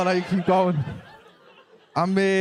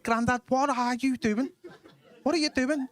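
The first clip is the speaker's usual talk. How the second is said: exasperated disbelief; 7 semitones higher than usual. Acted. Exasperated grandson questions fiddling granddad.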